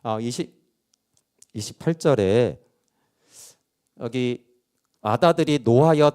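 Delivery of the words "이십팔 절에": ordinary talk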